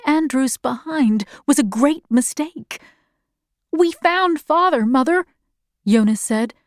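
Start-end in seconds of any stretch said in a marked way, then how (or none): 3.7-5.2 put-on high-pitched boy's voice; excited child. A narrator's reading. Jonas tells Mother they found Father, high excited child. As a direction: report it eagerly in a child's high voice. Young boy reports news to mother.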